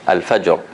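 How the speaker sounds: al-fajr ending on a heavy r; strong ra. Shown as a demonstration. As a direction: finish Al-fajr with a strong, full ra.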